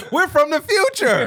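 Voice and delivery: high, drawn-out silly call; slow, high comic proclamation; mock time traveler. Mock spooky announcement while laughing.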